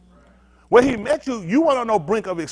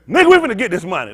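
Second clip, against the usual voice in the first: fast, louder mock boast; mocking impression; 6 dB louder, faster than usual. Preacher mocks the lawyer boasting about money, fast and louder. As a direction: sneer at him cashing in. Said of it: "He said".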